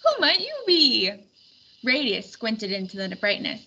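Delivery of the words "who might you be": high booming king voice; a big-voiced king calling out; jolly king. A narrator's reading. King's voice.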